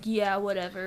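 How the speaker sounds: low-key, unexcited shrug of a voice; playing it cool. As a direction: hide the excitement behind indifference. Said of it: "I don't wanna play up too much".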